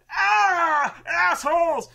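high, loud sputtered curse; sputtering rage. Acted. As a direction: spit out curses through the pain. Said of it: "he's like".

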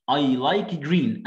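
stretched, slow textbook English; drawn-out classroom reading; very slow model reading. Shown as a demonstration. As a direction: spell out each word slowly. Reading child's line slowly.

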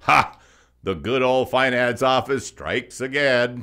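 loud, slow, sarcastic jab; sarcastic gloating; mocking laugh. Real, not acted. Mocking the finance office.

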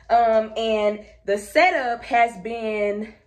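breathless, slow halting words; out of breath. Real, not acted. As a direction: talk while catching your breath. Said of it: "oh, I'm out of breath".

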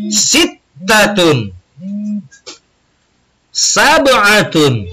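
each Arabic number slow and drawn out with a pause after; model counting. Shown as a demonstration. Teacher models Arabic numbers for students to repeat. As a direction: sound out each number for the class. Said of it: "ikuti Bapak".

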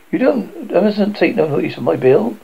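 lightly voiced, lilting bargewoman; friendly bargewoman. Bargewoman reassuring children about her husband, lightly voiced chatty role. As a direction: give a hint of a chatty barge wife.

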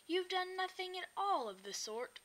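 high, amused and laughing; laughing leader. Acted. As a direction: laugh it off lightly. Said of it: "He just laughed".

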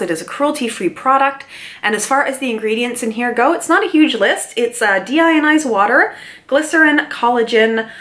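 normal talking voice

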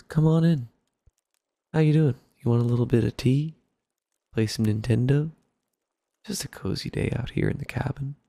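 lightly voiced cozy Canadian hockey guy; cozy old-time hockey guy. Imitating a TikTok Canadian inviting guests into his cabin, lightly cozy. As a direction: welcome them in with a hint of an old-time hockey voice. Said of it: "cozy voice ... old-time hockey voice".

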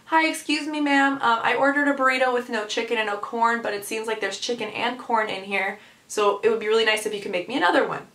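sweet, polite customer voice; polite request. Retold or imitated. Asking the cashier for a new burrito, polite. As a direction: ask ever so nicely. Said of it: "I very politely say".

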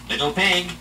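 slow, high, loud growling wolf; werewolf. Acted. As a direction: draw it out like a hungry wolf. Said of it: "he growled".

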